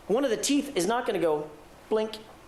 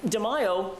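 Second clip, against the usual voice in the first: incredulous; 6 semitones higher than usual. Retold or imitated. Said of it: "in an incredulous tone of voice".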